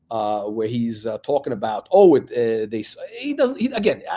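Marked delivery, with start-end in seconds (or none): none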